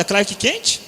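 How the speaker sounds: super-homem anunciado bem alto; super-homem proclamado. Shown as a demonstration. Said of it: "Eu fiz esse teste". (super-homem gritado de brincadeira)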